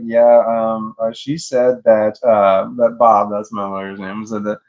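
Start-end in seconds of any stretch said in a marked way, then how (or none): 0.0-3.3 sheepish reluctant. Retold or imitated. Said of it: "saying it like this to the judge, like, putting her head down".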